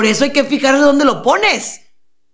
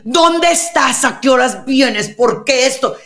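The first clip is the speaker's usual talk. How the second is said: mock nagging spouse; 2 semitones higher than usual. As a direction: imitate a spouse demanding answers. Acted nagging spouse after wedding.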